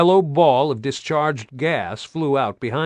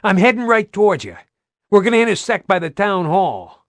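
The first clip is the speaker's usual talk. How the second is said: out of breath; 8 semitones higher, 6 dB louder than usual. Acted. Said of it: "Baird sounded out of breath".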